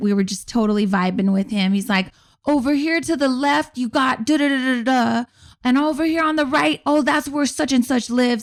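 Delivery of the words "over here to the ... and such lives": put-on heavy, thick Puerto Rican accent, pitched up. Retelling an Uber driver's tour-guide patter, in a thick Puerto Rican accent. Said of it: "He's got a super thick accent".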